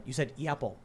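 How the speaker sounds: "Yapple" as YEP-ul; imitated Chicago A. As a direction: echo "Yapple" with a y-glide in front. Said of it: "And they'll say".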